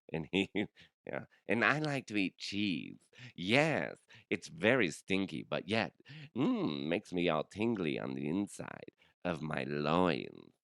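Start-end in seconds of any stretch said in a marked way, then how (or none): 1.5-10.5 lightly hammed-up British accent; Carlos. Pervy British character confessing his love of cheese, mock British accent. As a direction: play a creepy Brit savouring every word. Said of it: "this guy named Carlos from Britain".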